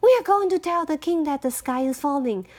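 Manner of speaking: fast, urgent hen voice; hurried worried bird announcing news. Acted. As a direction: rush it out, the sky is falling. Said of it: "said Henny Penny".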